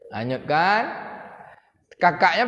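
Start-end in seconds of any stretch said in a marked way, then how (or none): 0.1-0.8 breathy secret whisper. Shown as a demonstration. Preacher whispers God's hushed command to Moses' mother.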